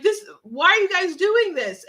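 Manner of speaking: hammed-up panicked plea; retelling a woman who screamed at the rioters; imitated screaming. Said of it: "just started screaming".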